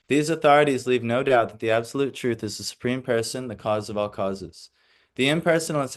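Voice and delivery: formal read-aloud lecture voice; reading the commentary. Acted. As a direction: read the purport to the class. Reads commentary from the book.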